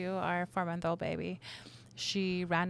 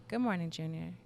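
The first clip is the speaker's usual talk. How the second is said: Good morning, Junior said low and softer; low calm man's voice; 4 dB quieter than usual. Shown as a demonstration. Mother imitating the man's voice she heard, low. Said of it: "It was".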